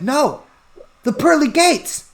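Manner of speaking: rising high on gates; alarmed correction. Acted. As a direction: blurt it out in panic. Peter corrects God, alarmed.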